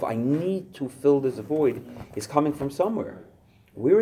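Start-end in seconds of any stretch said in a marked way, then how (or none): 0.0-1.9 slow, higher-pitched urgent craving; voicing a desperate hunger, slowly; intense need. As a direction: stretch it out with pressing need. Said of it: "that intensity of".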